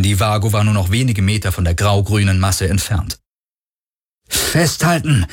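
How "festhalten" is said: high, drawn-out shout without much extra volume; yelled warning. A narrator's reading. Galen warns Kirai just before impact, yelled warning. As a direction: raise the pitch and stretch the urgent order. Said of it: "brüllte Galen erneut".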